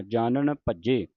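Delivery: ਜਾਣਨ with retroflex ṇ, then plain n; distinct nasal consonants. Shown as a demonstration. Teacher clarifies the letters, ਜਾਣਨ said carefully. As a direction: say ਜਾਣਨ ਭੱਜੇ slowly, both n sounds apart. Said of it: "ਜਾਣਨ ਪਹਿਲਾਂ ਨਾਣਾ ਫਿਰ ਨੰਨਾ".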